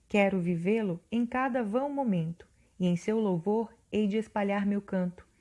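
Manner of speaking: measured poetry reading, each line given weight; poem recital. Acted. Teacher reading the sonnet aloud to the class, measured recital.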